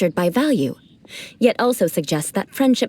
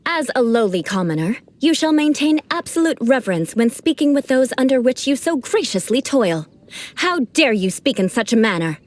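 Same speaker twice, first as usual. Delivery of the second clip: haughty noble decree; 2 semitones higher than usual. Shown as a demonstration. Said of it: "gave some real-life demonstrations".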